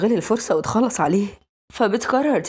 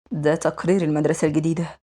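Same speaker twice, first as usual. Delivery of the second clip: low, unmoved male voice; cold; 4 semitones lower than usual. Acted. Guardian presenting the new school report to his ward, cold and low. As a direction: hand down the news coolly, in a lowered voice. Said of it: "بتتفاجئ ببروده".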